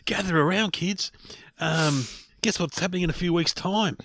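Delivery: put-on spooky tale for gathered kids; hushed creepy legend telling. Mock storyteller gathering kids.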